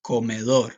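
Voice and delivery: teacher's careful "Comedor", stress on the last syllable; model pronunciation. Shown as a demonstration. Teacher has class repeat the dining room word, model pronunciation. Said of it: "Repeat after me".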